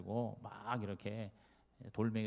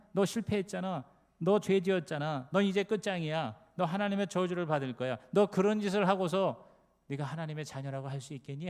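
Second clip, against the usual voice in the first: a louder, taunting devil jeering at the sinner; accusing devil; 5 semitones higher, 5 dB louder than usual. Acted. 목사가 신자를 정죄하는 마귀를 흉내 내는 장면, 조롱하듯 다그치는 목소리. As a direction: sneer each accusation like a prosecutor who never lets up. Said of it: "마귀가 와가지고 계속해서 우리한테".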